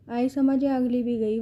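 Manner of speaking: mock her with a smug jab; taunting. Kidnapper taunts the girl with a light sneer. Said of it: "ولید نے طنز کیا".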